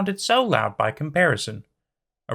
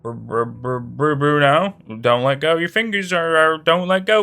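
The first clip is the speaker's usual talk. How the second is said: panicked pleading; 3 semitones higher, 6 dB louder than usual. Acted. She is slipping, panicking.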